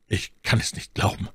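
clipped disbelief, cut short; increasingly curt. A narrator's reading. Felton doubting the Duke, abrupt and short. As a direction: say it curtly and haltingly. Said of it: "mit einer Stimme".

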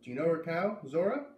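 put-on kid's voice, high and lively; boy's voice. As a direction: answer like a busy young boy. Boy asks about cow.

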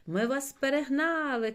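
high, loud boast; triumphant shout. A narrator's reading. Білик overtakes his friend in the race, triumphant shouting. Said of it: "кричав йому, е, Білик".

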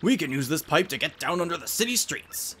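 scholarly professor giving directions; professor guide. Acted. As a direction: caution the party like a mentor.

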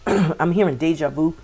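talking through a clogged throat; throat blocked. Real, not acted. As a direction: clear the throat then speak. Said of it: "My throat is getting blocked".

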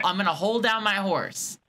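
slow model phrase ending on a clear "horse"; say-it-with-me demonstration. Shown as a demonstration. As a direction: lead them slowly through "hold down my horse". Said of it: "Say it with me".

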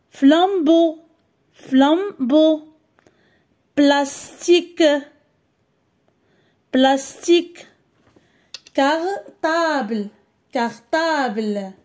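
mots dictés lentement et détachés; slow dictation words. Shown as a demonstration. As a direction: dicte chaque mot lentement, deux fois. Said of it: "Écoute et repère le son". (dictée lente et claire)

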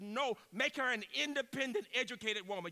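mother insisting to the grandmother; emphatic retold quote.

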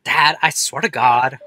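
put-on annoyed teen. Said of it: "I don't like this voice I gave her".

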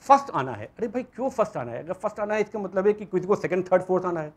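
Hindi-accented mock of the race talk; north indian accent. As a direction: lightly mimic the pushy parent in Hindi. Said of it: "mimics the race mindset".

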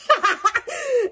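high peal of laughter; helpless giggling at yourself. Real, not acted. Admitting she can't afford a big party, high laughter.

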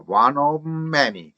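slow "One of many" with of's v lost into the m; dropped v. Shown as a demonstration. Teacher models the silent v, "One of many" linked. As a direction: close the lips early in "One of many". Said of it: "치순음은 거의 들리질 않는다".

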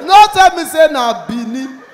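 shouting at the agent in disbelief; disbelieving shout. Retold or imitated. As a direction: cry it out in comic horror. Escalating disbelief.

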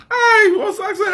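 laughing through the words in disbelief; a burst of high laughter as he speaks. Real, not acted. Preacher laughing at the woman's request to the congregation.

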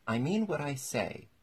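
high, loud offended retort. A narrator's reading. Mock Turtle retorts to Alice's correction, offended. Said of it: "replied in an offended tone".

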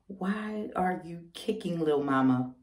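quietly puzzled, talking to the bump; soft pleading to baby. Retold or imitated. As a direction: gently ask the kicking baby, taking your time. Gently asks her kicking unborn baby.

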